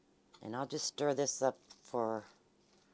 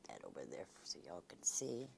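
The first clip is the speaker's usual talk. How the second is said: whispering; 4 semitones lower, 12 dB quieter, faster than usual. Real, not acted. Quiet aside while showing.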